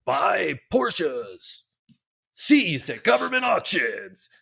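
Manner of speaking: big put-on huckster voice; mock ad pitch. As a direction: sell it like a cheesy classified ad. Mimics his old magazine ad pitch.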